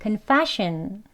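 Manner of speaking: confession slow, stressing fe. Shown as a demonstration. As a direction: draw out confession, hitting fe. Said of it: "fe에 있습니다".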